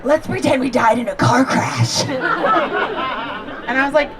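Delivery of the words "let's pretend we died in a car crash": a bit louder, keen mock-eager suggestion; eager cousins. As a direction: pitch the prank idea with mock gusto. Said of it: "And they're like".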